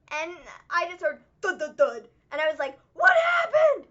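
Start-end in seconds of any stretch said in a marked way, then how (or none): 2.9-3.9 loud, high, startled call of "What happened?"; alarmed shout. Retold or imitated. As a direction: yell it up the stairs in alarm. Hearing thuds, calling out alarmed.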